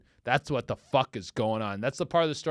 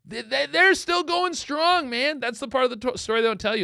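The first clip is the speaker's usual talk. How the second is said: emphatic; 11 semitones higher, 3 dB louder than usual. Real, not acted. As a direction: proclaim it like a revelation. Comic emphatic marriage rant.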